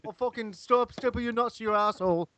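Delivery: high, hammed-up British accent; mock British accent. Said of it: "I got the Canadian accent".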